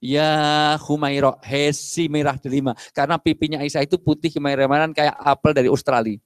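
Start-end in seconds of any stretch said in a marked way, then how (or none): 0.0-2.8 slow, affectionate call; tender pet name. Acted. Husband calling his wife by her nickname, slow affectionate call. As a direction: draw out the pet name lovingly. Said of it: "kalau manggil apa?".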